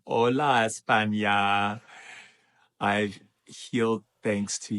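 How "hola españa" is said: greeting call. Real, not acted. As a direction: call out a long hello to Spain. Greeting viewers' countries in turn.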